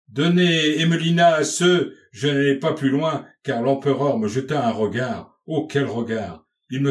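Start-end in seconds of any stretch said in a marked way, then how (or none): 0.1-1.9 loud, high exclamation cut short; raised-voice outburst, pitched high and sustained; crying out. A narrator's reading. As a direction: blurt it out before thinking. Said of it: "je m'écriais".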